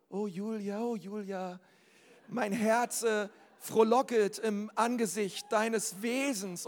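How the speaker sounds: mock-solemn declamation, slow and stretched; parodierter salbungsvoller Ehemann. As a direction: address a wife as if reciting a pompous prayer. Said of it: "der so mit seiner Frau reden würde". (gespielt feierlich, gedehnt deklamierend)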